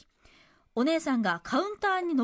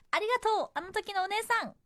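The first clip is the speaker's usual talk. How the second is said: high-pitched grateful call; heartfelt thanks; 7 semitones higher than usual. Acted. Letter writer thanking that staffer from the past, heartfelt. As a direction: send thanks out to someone long ago.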